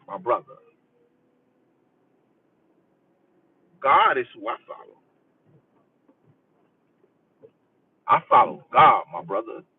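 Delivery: lightly voiced self-righteous believer; mocking denial. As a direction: mimic someone claiming no religion. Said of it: "and say".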